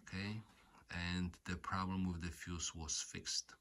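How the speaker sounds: usual speaking voice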